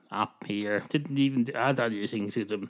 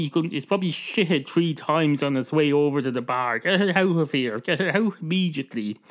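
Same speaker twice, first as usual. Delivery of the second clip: raised, higher-pitched angry rant; annoyed barman; 5 semitones higher, 4 dB louder than usual. Acted. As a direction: order the dog out of your bar, loudly indignant. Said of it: "seems to be very annoyed".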